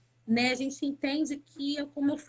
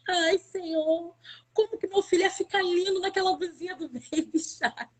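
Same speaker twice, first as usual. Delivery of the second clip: crying prayer; 5 semitones higher than usual. Retold or imitated. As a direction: cry out to the Lord over the lost son. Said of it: "eu vim pra casa chorando tanto".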